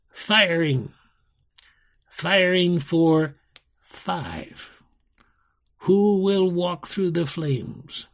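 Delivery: slow, deliberate menace with long pauses; sinister enchanter. A narrator's reading. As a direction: relish the threat, word by word. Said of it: "voice grew sinister".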